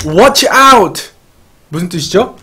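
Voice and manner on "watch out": raised-pitch acted warning; imitating a shouted alert; mock warning shout. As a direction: call it out like a warning, half in earnest. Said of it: "이렇게 소리를 지르죠".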